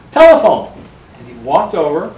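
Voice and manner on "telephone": high, loud call across the room; raised announcing call. Retold or imitated. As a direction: holler it over the crowd, high. Dreamed person calls across a room.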